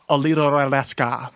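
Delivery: mock Latin-accented place name; little Latin accent. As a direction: put a light Latin lilt on it. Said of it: "like, the little Latin accent".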